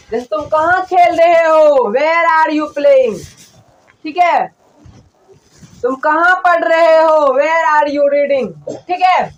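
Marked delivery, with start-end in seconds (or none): 1.9-3.2 each word drawn out for students to copy; very slow dictation. Shown as a demonstration. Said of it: "teacher dictates slowly". 7.3-8.5 slow dictation. Shown as a demonstration. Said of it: "teacher dictates slowly".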